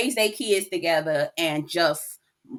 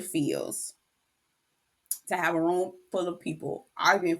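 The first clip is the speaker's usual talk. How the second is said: quiet and heavy, almost crying; near tears; 4 dB quieter than usual. Real, not acted. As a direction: speak through rising tears. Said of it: "I'm about to cry".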